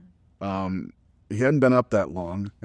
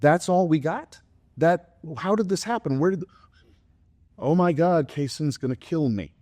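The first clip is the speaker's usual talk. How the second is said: retold panic; 4 semitones higher than usual. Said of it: "And I said".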